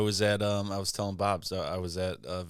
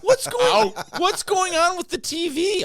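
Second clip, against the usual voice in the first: high, slow, laughing through the quote; laughing mock question; 12 dB louder, slower than usual. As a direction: imitate her puzzled question while cracking up. Bar worker quoted, laughing.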